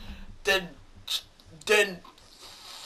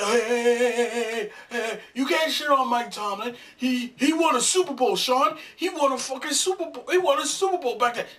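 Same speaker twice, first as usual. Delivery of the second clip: mock defender; 3 semitones higher than usual. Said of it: "before you wanna say".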